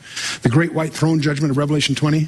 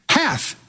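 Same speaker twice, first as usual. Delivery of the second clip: "Hath" alone, pitched high and falling; stress on Hath; 10 semitones higher than usual. Real, not acted. Preacher drives home present tense, stress on "Hath". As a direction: punch out "Hath" as a word by itself.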